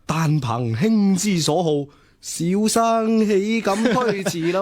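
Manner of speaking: lightly hammed-up old-style scholar, slow; a hint of a classical gentleman, drawn out; mock scholarly line. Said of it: "我通常都會話". (扮古代書生咁，慢慢講，輕輕誇張)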